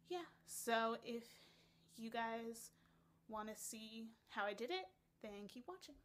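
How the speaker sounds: lisping through vampire fangs. Real, not acted. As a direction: talk with fake fangs in. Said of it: "sorry about the lisp".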